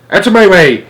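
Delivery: put-on high, loud old woman's shout; grandma shouting while flying. A narrator's reading. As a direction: bellow it to clear a path. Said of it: "shouted Grandma Georgina".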